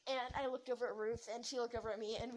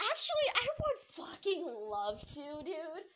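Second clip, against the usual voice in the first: higher, drawn-out eager retort; emphatic retort; 4 semitones higher, 3 dB louder, slower than usual. Retold or imitated. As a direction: lean hard into it, slowly. Acted retort in retold confrontation.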